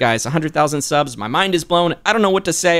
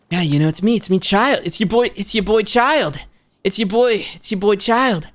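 perky, higher-pitched character voice; higher, cocky character intro; Child voice; 4 semitones higher than usual. Acted. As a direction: pitch it up and announce yourself playfully. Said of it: "I'll say it in Child's voice".

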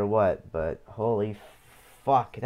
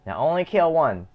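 raised pitch, firm game-side order; insistent command; 5 semitones higher, 3 dB louder than usual. Real, not acted. Player telling the game to kill one, insistent. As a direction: urge it on, pitched up.

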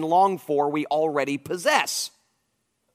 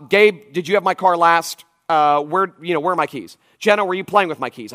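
put-on barking at the kids; 3 semitones higher, 6 dB louder than usual. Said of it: "I bark and I bark".

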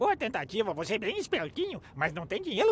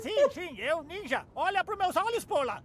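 put-on Japanese accent Portuguese; 3 semitones higher, 5 dB louder than usual. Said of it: "Chinês ninja novo pra mim".

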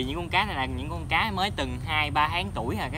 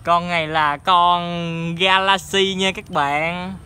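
excited; 2 semitones higher, 4 dB louder, much slower than usual. Real, not acted. Reveals Galaxy fish.

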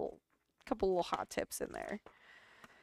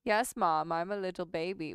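cat voice. Pretend. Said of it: "we love to talk like that".

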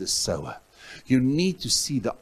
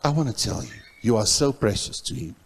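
1 tender appeal. Retold or imitated. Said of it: "And in that silence, I just said".

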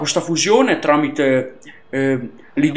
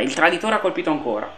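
quick quiet repeat; 5 dB quieter, faster than usual. Acted.

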